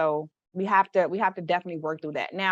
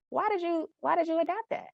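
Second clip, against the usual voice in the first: gentle probing; 10 semitones higher, 4 dB quieter than usual. Acted. Coach voices gentle probing question.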